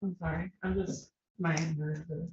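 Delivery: shaky, tearful apology; breaking down, trying to hold it together; hiccupping sobs. Real, not acted. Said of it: "You can take a breath".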